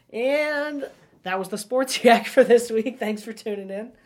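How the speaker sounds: drawn-out, booming sports-show outro; sports radio voice. Pretend. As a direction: sign off in a big radio voice. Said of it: "that was my sports voice".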